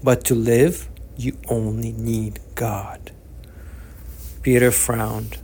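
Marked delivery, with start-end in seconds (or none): 0.0-3.1 a slow, unvoiced whisper, almost to himself. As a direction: let the last words sink into a whisper. Old man comforting Peter.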